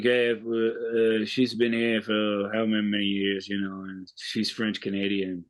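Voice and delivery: deadpan retelling in a mock Australian accent; fake Australian accent. Retelling a film detective's explanation, in a fake Australian accent. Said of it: "do it in a fake Australian accent".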